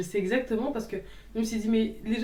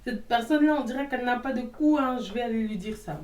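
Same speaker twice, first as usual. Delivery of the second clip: mock hater; 4 semitones higher, 4 dB louder than usual. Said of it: "Vous êtes obligé d'analyser la personne, de regarder".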